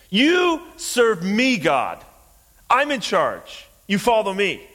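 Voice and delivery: high, forceful bossy orders; acted-out defiant yelling; screaming demand. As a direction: bellow orders as if in charge. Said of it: "would scream at God".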